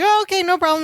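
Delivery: lightly acted high-pitched fluster; retold flustered appeasing. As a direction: hurry to smooth it over, imitating a flustered cook. Flustered cook placating the customer.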